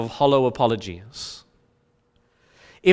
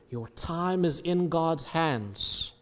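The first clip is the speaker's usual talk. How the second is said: soft and slow, leaning in close; hushed whisper-like; 9 dB quieter, slower than usual. Acted. Preacher to congregation, the chapter whispering its promise, hushed and slow. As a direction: let the line drop to a hush, slowly. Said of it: "every moment in this chapter is whispering".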